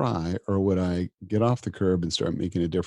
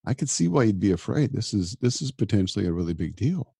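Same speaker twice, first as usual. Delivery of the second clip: gentle, reassuring self-talk; kind inner voice. Retold or imitated. Doctor comforting himself at night, reassuring and kind. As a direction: soothe yourself like a friend would. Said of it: "show up with kindness towards myself".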